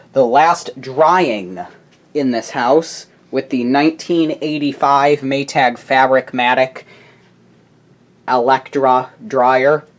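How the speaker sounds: slow dramatic announcement. Acted. Announcing final dryer run.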